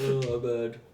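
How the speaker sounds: laughing. Real, not acted. Laughing at himself.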